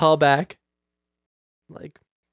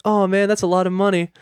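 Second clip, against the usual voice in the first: higher-pitched, mildly pleading; sap story; 5 semitones higher than usual. Retold or imitated. Customer tugging agent's heartstrings over a fee, sap-story pleading. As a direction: plead lightly for some sympathy. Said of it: "the sap story".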